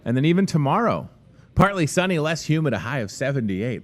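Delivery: lightly put-on forecaster's read, starting high; weather voice. Shown as a demonstration. Host giving viewers tomorrow's forecast, in a light weather voice. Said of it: "That's my, uh, weather voice".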